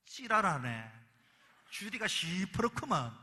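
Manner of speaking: loud, exasperated Gyeongsang snap; angry outburst. Retold or imitated. Fed-up Gyeongsang woman snapping at her date, loud and angry. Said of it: "화가 올라왔습니다".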